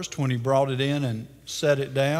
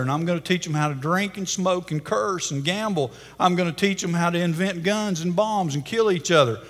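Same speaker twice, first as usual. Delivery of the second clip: gloating; 3 semitones higher than usual. Acted. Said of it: "he was gloating and boasting".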